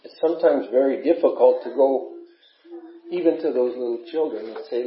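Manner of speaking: fighting back tears while speaking; holding back sobs. Real, not acted. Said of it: "I get emotional about some of this".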